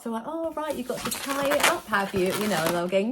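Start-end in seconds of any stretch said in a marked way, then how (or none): 0.3-2.3 higher, mock-surprised realisation; playing dumb. Entertainer pretending to learn from the children, higher and mock-surprised. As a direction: pretend you had no idea. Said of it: "I act a little bit dumb".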